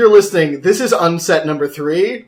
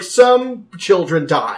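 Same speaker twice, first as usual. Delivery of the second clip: deadpan quote; much slower than usual. Retold or imitated. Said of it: "the flavor text is".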